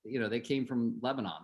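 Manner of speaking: put-on uncle with a Lebanese accent teasing his nephew. Uncle nagging the young agent about his badge, in a light Lebanese accent. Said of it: "So they had, like, this accent".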